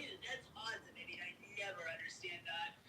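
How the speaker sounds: put-on husky, half-whispered little boy. Shown as a demonstration. Demonstrating voice roles, a lightly voiced little boy. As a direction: lightly put on a young boy's voice. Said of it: "like the little boy".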